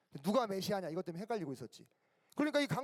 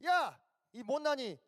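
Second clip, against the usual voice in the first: mock insults, pitched high; acted bully's taunt; name-calling; 4 semitones higher, slower than usual. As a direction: hurl playground insults one by one. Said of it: "막 욕하는데".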